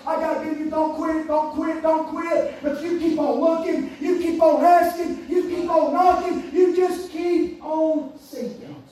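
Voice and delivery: rhythmic preaching in repeated phrases; urgent exhortation. Acted. Preacher urging struggling parents to keep seeking, urgent. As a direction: press each phrase home to the listeners.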